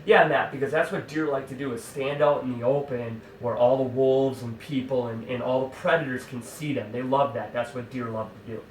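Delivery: dry sarcasm, pretending to agree; mock him with fake agreement; sarcastic mocking. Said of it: "kinda mocking him".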